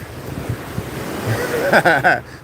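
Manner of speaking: laid-back stoner chuckle; a lazy stoner giggle; stoner laugh. Shown as a demonstration. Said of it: "I got a stoner laugh".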